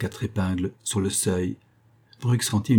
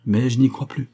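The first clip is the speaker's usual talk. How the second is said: slightly raised, firmer voice; higher, a touch more assertive; firming voice; 4 semitones higher, 4 dB louder than usual. Acted. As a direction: say it with growing resolve. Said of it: "dit-il d'une voix qui se raffermissait".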